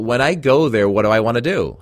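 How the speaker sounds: ordinary talk, nothing marked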